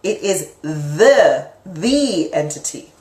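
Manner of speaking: "the" stretched out and stressed; slow right down and lean hard on "the"; emphatic, drawn-out "the" to mark it as the one. Shown as a demonstration. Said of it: "is not just an entity".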